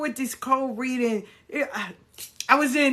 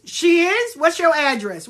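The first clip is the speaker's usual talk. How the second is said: high, loud incredulous questioning; pitched-up, challenging disbelief; mock surprise; 8 semitones higher, 6 dB louder than usual. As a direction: act astonished and demand details. Mock disbelief at reader's claim.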